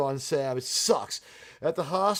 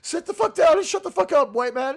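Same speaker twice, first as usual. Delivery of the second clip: shouted, much higher, hammed-up fury; bad acting; 10 semitones higher, 5 dB louder than usual. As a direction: yell it down at the president. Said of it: "it's like".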